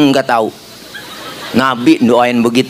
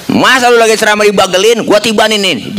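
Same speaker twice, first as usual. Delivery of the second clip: higher, pushy Betawi angel; indignant Jibril; 6 semitones higher than usual. Acted. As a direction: offer revenge with a hint of outrage. Jibril again offers revenge. (Jibril yang kesal, suara agak tinggi)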